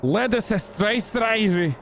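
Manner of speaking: very high, slow, drawn-out silly voice; mock name reading. Streamer reading out strange names in a high, slow put-on voice. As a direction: draw each name out high, in hammed-up grandeur.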